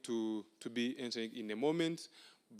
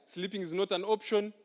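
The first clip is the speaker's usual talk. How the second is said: higher, playful repeat of "Sleeping is not an option"; amused repeat; 6 semitones higher than usual. Shown as a demonstration. Laughing with the crowd about the slogan, playful higher repeat. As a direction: say it again with a teasing lift. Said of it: "I hope it is still so, right?".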